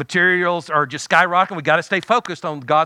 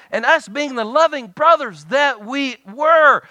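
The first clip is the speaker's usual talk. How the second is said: slow, higher, drawn-out storytelling build-up; mock innocence; 5 semitones higher, 3 dB louder, slower than usual. Real, not acted. Brother setting up his prank confession, mock-innocent. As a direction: stretch it out with playful irony.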